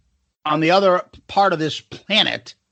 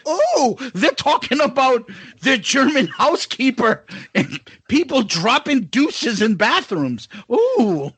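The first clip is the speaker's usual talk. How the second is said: put-on a loose New Zealand accent, pitched up; 5 semitones higher than usual. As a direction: keep the jokey New Zealand accent going. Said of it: "this is my New Zealand accent".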